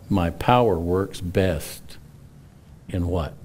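slow build, then drop "in what?" low; teasing question. Acted. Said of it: "And then he says".

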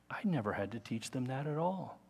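whisper. Real, not acted. Whispered aside on deception.

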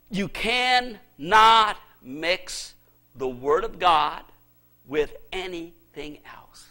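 dropping to a low whisper. Real, not acted. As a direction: hush it down to a whisper. Sudden drop to whisper.

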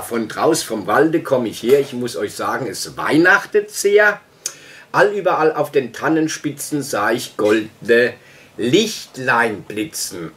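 measured verse reading, pausing at line ends; lightly declaimed rhyming verse; poem recitation. Acted. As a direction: recite it like a classic Christmas poem. Quotes Storm's Christmas poem.

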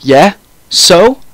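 flustered, pitch lifting at the end; blushing. A narrator's reading. Ebony asked about Draco, blushing. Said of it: "I said, blushing".

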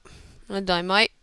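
casual, poorly faked Australian; mock Australian accent. Gamer joking about dying in game, mock Australian accent. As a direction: say it in a loose Australian put-on. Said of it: "Talking an Australian accent".

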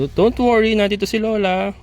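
high, loud granny voice for the goat; goat grandma voice. Acted. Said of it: "sabi ni Tisay".

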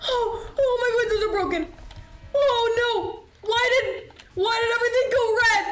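panicked laugh-crying at the damage. Real, not acted. Player laugh-screaming as Bigfoot smashes the windows.

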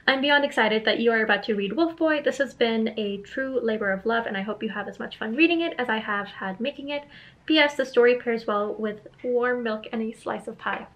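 put-on light playful British accent; letter read in a mild British accent. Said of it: "I'm just gonna pretend to give him a British accent".

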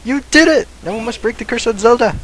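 high, bright little sidekick voice; cheerful game character. Pretend. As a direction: chirp it like a fairy companion. Voices in-game character's victory lines.

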